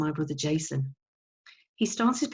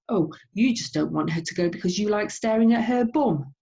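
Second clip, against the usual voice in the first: accusing Mum; 4 semitones higher, 4 dB louder than usual. Acted. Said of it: "And Mum would say".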